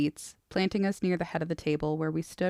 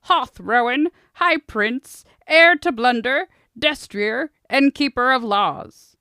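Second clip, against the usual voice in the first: pompous fussy courtier; 7 semitones higher, 10 dB louder, slower than usual. Acted. Orator announcing the prince.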